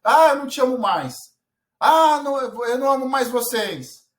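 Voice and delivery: put-on loud, high whiny child outburst; child yelling he no longer loves his parents; upset child. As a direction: shout it like a sulking little boy. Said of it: "meu filho".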